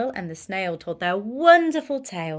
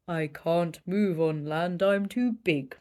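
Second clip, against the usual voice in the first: moan; 3 semitones lower than usual. Acted. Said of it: "moaned the whale".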